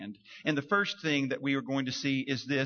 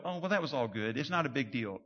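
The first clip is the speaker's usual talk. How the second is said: dismissive shrug; 3 semitones lower than usual. Retold or imitated. Mock believer shrugging off injustice. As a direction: wave it away, no big deal. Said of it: "It doesn't mean you go".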